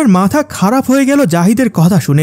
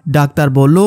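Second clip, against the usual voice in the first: plain reading voice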